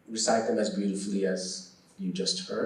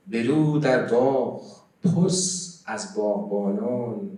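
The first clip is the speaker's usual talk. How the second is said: measured Persian verse recitation, voice carried out loud; loud, deliberate poem reading; poetry recitation; 7 semitones lower, 8 dB louder than usual. Acted. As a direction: recite the verse line by line with long held vowels and pauses.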